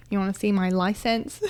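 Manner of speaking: a hint of an American accent. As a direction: put on a light American accent. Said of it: "why are you changing your accent".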